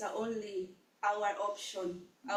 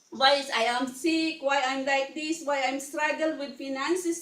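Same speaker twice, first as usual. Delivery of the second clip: louder mock complaint, rising questions; complaining to God; 2 semitones higher, 4 dB louder than usual. Preacher voicing a congregant's complaints to God, louder and exasperated. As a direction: grumble at God as if fed up. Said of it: "we complain it".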